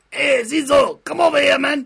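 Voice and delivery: high loud call across a room; mock calling out. Calling a mate named Aceso over, loud mock shout. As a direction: yell the name like calling a mate.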